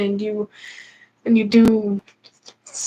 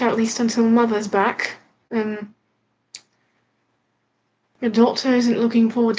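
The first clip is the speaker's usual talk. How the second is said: a light put-on English accent. Kid asked by a viewer, doing a light English accent. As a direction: play it posh and English for the stream. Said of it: "Give, give us your English accent".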